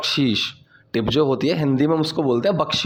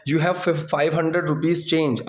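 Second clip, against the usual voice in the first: slow model sentence; much slower than usual. Shown as a demonstration. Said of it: "teacher models English slowly".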